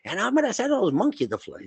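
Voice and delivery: high cackling witch threat; wicked witch voice. Retold or imitated. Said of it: "When a wicked witch says".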